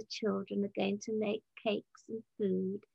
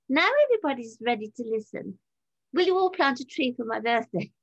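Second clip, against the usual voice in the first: louder, raised call to the room; calling for everyone's attention; retold announcement to a crowd; 5 dB louder than usual. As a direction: mildly re-enact addressing a pub crowd. Retells her pub announcement to crowd.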